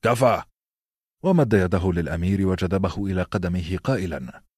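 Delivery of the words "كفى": a louder, raised "enough"; stern shout. A narrator's reading. Master-at-arms halts the sparring with a raised shout. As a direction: stop the boys dead. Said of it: "صاح السير رودريك".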